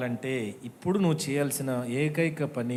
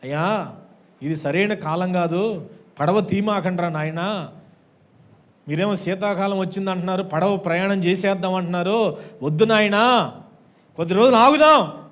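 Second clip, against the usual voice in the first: pleading, growing louder to a near shout; Paul pleading; 2 semitones higher, 5 dB louder than usual. Retold or imitated. Paul begging the sailors not to sail, pleading louder. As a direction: beg them to wait, rising to a cry. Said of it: "పౌలు చెప్పాడు".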